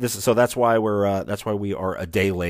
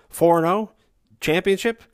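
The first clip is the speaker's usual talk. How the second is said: much higher, louder rising questions; excited disbelief; 11 semitones higher, 6 dB louder than usual. Real, not acted. Host hyping listeners over an unbeaten run, incredulous. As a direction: feign amazement at your own success. Mock disbelief at their success.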